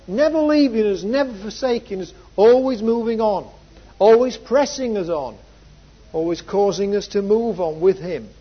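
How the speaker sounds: impassioned preacher in full flow; fervent preaching. Real, not acted. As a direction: drive each phrase home from the pulpit. Preacher builds to emphatic climax.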